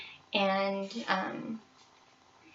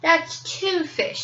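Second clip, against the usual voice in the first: little bear voice; 8 semitones higher, slower than usual. Acted.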